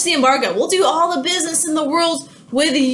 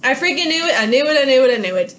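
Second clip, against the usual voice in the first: gloating Napoleon; faster than usual. Retold or imitated. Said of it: "Napoleon says".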